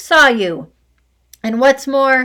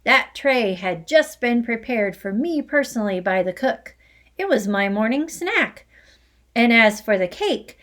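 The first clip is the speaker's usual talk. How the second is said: loud, higher angry rant; furious tirade; 3 semitones higher, 5 dB louder than usual. Acted. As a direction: rage on about the stolen cake. Headmistress's furious accusing tirade.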